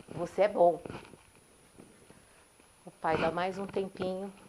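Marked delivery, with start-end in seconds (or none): 0.1-0.8 answering echo. Retold or imitated. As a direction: let it come back faintly. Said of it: "escuta uma voz".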